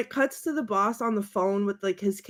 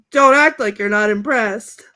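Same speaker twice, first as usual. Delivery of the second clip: louder, boastful mock delivery; cocky movie quote; 7 dB louder than usual. Fan quoting Ron bragging to a woman, cocky. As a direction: announce it loudly, playing cocky.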